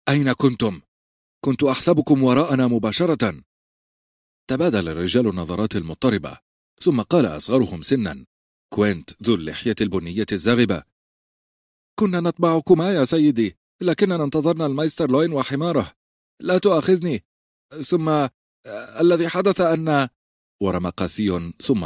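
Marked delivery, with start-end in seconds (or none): 0.1-3.4 higher, firm demand; stern. Acted. Robb sternly asking the guards where they were. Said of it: "قائلا بصرامة". 12.0-20.1 put-on higher, nervous young soldier; young guard, flustered. Quent apologising to Robb, flustered and high.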